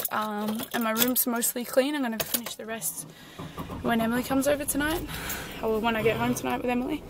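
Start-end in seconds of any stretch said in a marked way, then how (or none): 3.8-7.0 talking a bit breathless; out of breath. Real, not acted. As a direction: speak while catching breath. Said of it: "I'm out of breath".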